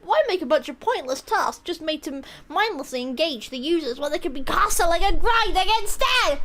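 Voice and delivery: mock mad. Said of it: "I'm really mad right now".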